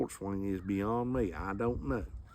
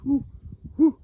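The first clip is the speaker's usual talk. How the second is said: hammer whoosh; 12 semitones higher, 7 dB louder than usual. Retold or imitated. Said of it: "that hammer goes".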